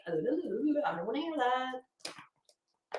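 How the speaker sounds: slow, soft, mock fed-up brush-off; fed-up reply. Answering her husband about the spray tan, slow and soft and fed up. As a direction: drag it out like you're done listening. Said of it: "and I'm like".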